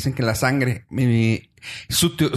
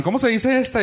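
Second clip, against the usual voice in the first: asking ¿Cómo se dice esta? in a much higher voice; high mock question; 12 semitones higher than usual. Imitating a friend asking about the sauce, high and curious. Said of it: "me preguntaban".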